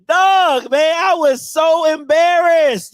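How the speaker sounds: embarrassed. Real, not acted. After laughing, loud and slow.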